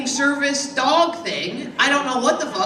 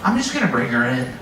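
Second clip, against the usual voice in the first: low leaning-in voice; 11 semitones lower than usual. Retold or imitated. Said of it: "I leaned across the counter and I was like".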